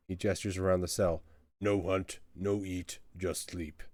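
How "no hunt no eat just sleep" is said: lightly voiced sulking troll; dejected troll, word by word, dropping away. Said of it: "See a troll sulking in his cell".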